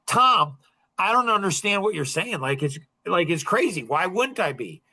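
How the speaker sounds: lightly acted exasperation, voice lifted. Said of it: "And I raised my voice, got a little more, more intense".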